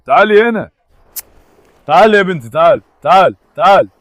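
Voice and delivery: loud coaxing call; repeated loud come-here call. Real, not acted. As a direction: call her in, loud and urgent. Calling the bird to come.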